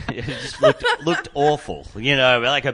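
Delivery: high squeal of laughter; laughing. Real, not acted. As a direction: laugh through the words. Laughing at own memory.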